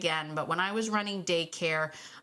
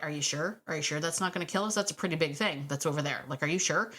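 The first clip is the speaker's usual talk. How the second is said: nervous dog; 4 semitones lower, faster than usual. Retold or imitated. Nervous new dog voiced.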